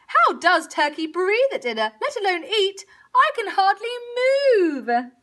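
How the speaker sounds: high, strained complaint; squeezed, struggling cow voice; gasping cow. A narrator's reading. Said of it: "gasped Cow".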